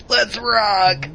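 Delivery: whiny nasal Dante. Retold or imitated. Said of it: "His whiny nasal voice".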